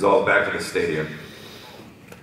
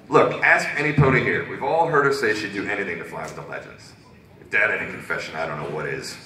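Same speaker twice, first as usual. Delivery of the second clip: light Brooklyn character voice; Brooklyn accent; 3 semitones higher, 4 dB louder than usual. Acted. Reserve making the case to Rarity, light Brooklyn accent. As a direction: argue it like a Brooklyn local. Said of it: "talk like they're from Brooklyn".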